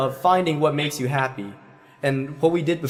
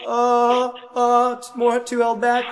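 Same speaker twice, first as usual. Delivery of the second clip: higher, puzzled self-questioning; questioning student voice; 8 semitones higher, 3 dB louder than usual. Retold or imitated. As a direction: wonder aloud like a careful student. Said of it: "People don't like to go".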